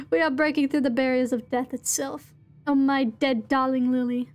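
measured, dramatic reading aloud; theatrical note reading. Acted. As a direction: read it out as a solemn old journal. Reads game notes aloud theatrically.

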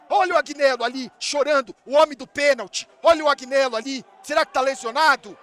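ordinary talk, nothing marked

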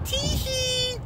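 very high tee-hee; squeaky toy giggle; cutesy giggle. Pretend.

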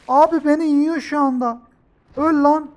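high loud frantic shouts; panicked yelling. Real, not acted. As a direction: yell at the attacker in panic. Being eaten by the shark.

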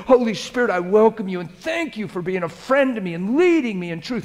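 fervent steady prayer voice; model prayer. Shown as a demonstration. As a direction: pray it out with conviction. Leads a model prayer aloud.

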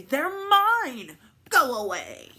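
loud, high snarl of a selfish pug; greedy yell. Acted. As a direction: shout him away from your toys. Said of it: "Pig would just grumble and say".

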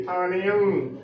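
ਥਾਣਿਅੰ said thaa-ne-am; "thaaneam" for ਥਾਣਿਅੰ; demonstrated pronunciation. Shown as a demonstration. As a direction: open ਥਾਣਿਅੰ into three syllables with a nasal ending. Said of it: "ਐੜੇ ਨੂੰ ਟਿੱਪੀ ਲੱਗੇਗੀ".

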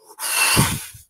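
big, loud breathy exhale; imitated rush of released breath; forceful whoosh of breath. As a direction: blow the air out hard like a weight leaving. Imitating the weight leaving him.

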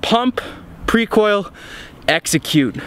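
breathless recap; out of breath. Real, not acted. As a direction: still catching breath. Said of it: "I'm sorry I'm out of breath".

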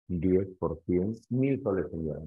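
ordinary delivery

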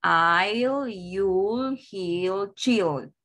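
"I'll, you'll, he'll, chill", each held as one syllable; una sola sílaba. Shown as a demonstration. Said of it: "Una sílaba". ("I'll, you'll, he'll, chill", cada una en una sílaba)

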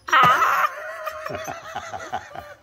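high screechy chattering laugh; very high, broken chimp-like screech; monkey-like cackle. Real, not acted. Animal monkey-like noise in reply.

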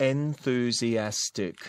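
Enthusiastic said clearly as en-thu-zi-as-tic; correct pronunciation. Shown as a demonstration. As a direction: model Enthusiastic evenly, stress on AS. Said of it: "ออกเสียงถูกนะ". (ออกเสียง Enthusiastic ชัด ๆ ครบทุกพยางค์)

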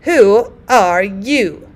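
slow sheep-like bleat. Acted. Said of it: "and she bleated".

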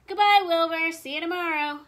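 loud, high singsong goodbye; teasing farewell. A narrator's reading. Elmer pretends to abandon cousin, loud singsong farewell. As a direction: call it out as you leave.

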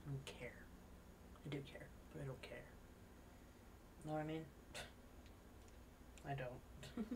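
soft unvoiced whisper. Real, not acted. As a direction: whisper it like a secret. Whispered aside.

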